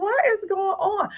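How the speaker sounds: high, slow, drawn-out bafflement; baffled. Retold or imitated. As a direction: stretch it out in mock bewilderment. Retelling her bafflement at nurse.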